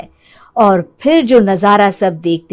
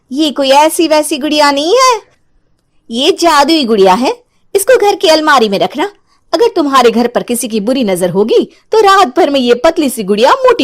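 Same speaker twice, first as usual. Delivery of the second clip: a hint of a cunning peddler coaxing; persuasive stranger woman; 2 semitones higher than usual. Disguised witch sells the doll. (हल्की चालाक आवाज़ में समझाती औरत)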